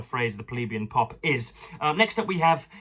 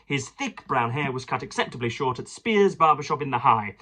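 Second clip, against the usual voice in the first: lightly lifted reading-aloud tone. Acted. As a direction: read the passage out to the listeners. Reads a biography aloud.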